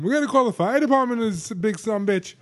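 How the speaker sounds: high, loud, hammed-up Boston accent; Ben Affleck. Imitating friends sizing up the fallen man, terrible Boston accent. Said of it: "Why is everyone Ben Affleck?".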